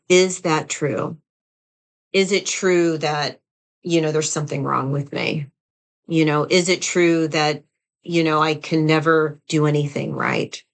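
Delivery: a slow, measured check of the thought; slow, calm self-questioning. Shown as a demonstration. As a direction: ask it slowly and evenly, weighing each word. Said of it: "And you ask yourself".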